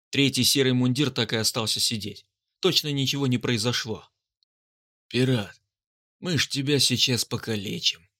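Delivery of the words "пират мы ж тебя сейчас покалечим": melancholic. Acted. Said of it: "меланхолично произнёс он".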